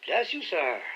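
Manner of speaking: put-on old sailor voice with a sly, sinister smile. A narrator's reading. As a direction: smile menacingly through it. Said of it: "said the fellow with a sinister smile".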